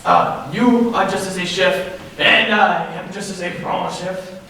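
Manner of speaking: a lightly put-on French accent. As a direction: play a hammy fake French chef in a French accent. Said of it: "German accent".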